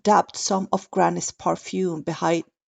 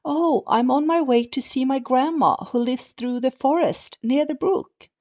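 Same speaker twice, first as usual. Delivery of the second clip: put-on high, bright little girl; 6 semitones higher than usual. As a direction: play the sweet young girl. Red Riding Hood voiced in story.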